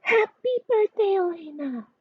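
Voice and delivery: high excited birthday cheer; family shouting. A narrator's reading. Family surprises Elena with a cheerful shout. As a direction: shout it out as the lights come on. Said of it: "Her whole family shouts".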